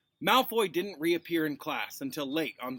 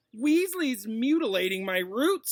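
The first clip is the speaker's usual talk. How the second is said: higher, louder, slow tattling whine; drawling; 9 semitones higher, 7 dB louder than usual. Acted. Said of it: "drawled Malfoy".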